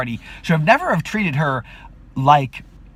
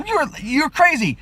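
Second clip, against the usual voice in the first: angry outburst; 14 semitones higher than usual. Retold or imitated. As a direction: shout her down in disbelief. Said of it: "and I'm like".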